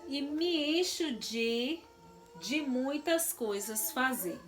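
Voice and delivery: lilting schoolbook verse, unhurried; slow verse reading. Acted. Teacher reading a rhyme to pupils, slow and lilting. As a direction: read it slowly, like a children's rhyme.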